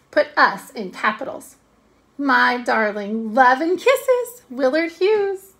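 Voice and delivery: lightly lovesick dictation; moony. Acted. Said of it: "she continued in a moony voice".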